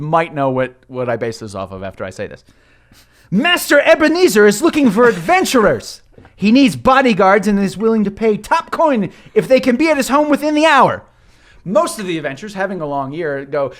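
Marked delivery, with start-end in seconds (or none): 3.3-11.0 higher, louder messenger call; young gnome calling out. Acted. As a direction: announce it to the whole tavern. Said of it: "he screams to the room".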